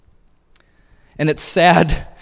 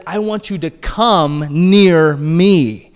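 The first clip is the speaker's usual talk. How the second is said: gentle invitation; 4 dB louder, much slower than usual. Acted. Paul's inviting words quoted.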